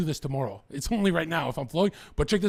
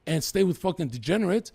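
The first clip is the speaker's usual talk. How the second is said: higher, louder retold scolding; higher, louder mock scolding of a partying younger brother; 7 semitones higher, 4 dB louder than usual. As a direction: lay into him like an older brother. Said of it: "He said".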